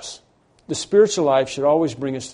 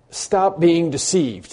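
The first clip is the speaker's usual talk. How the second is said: slow, higher, forceful command; raised preaching voice, drawn out for emphasis; emphatic exhortation; 5 semitones higher, 4 dB louder, slower than usual. Acted. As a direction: urge the congregation, word by word. Preacher turns the command on congregation.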